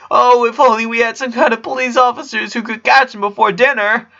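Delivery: big brother's mock-serious alarm; mock dramatic. A narrator's reading. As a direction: play it up like a cop show for the kids. Lincoln plays up the game.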